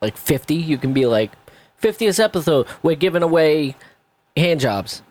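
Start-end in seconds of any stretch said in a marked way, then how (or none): 1.8-5.0 higher, playful announcer pitch; mock promo announcement. Co-host pitching a milestone episode giveaway, mock announcer.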